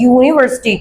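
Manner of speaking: यूनिवर्सिटी starting on a clear "yoo"; opening Y sound. Shown as a demonstration. Teacher repeating the example, यूनिवर्सिटी with Y onset. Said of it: "ये वाई का sound दे रहा है".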